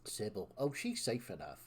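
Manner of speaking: taunting West Country villain. Acted. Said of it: "doing a villain voice in West Country".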